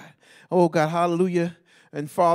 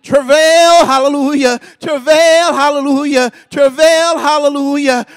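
crying out; 9 semitones higher, 14 dB louder, slower than usual. Acted. Urging women to travail in prayer.

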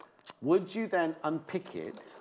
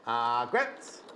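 "Margaret" lower, drawn out, with foreign colouring; Scandinavian-style name; 5 semitones lower, much slower than usual. Shown as a demonstration. Host retrying a bag name, light Scandinavian accent.

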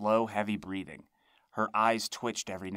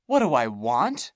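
mocking crone; 4 semitones higher, 9 dB louder than usual. A narrator's reading. Monster repeats his question mockingly.

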